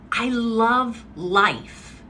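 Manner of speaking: slow, drawn-out loving delivery; savoring. Retold or imitated. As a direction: savor every word slowly. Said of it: "I said".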